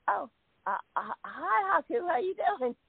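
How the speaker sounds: high, halting surprised hello; imitated flustered greeting. She answers an unexpected FaceTime call, imitated flustered high greeting. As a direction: re-enact a caught-off-guard hello, pitched high.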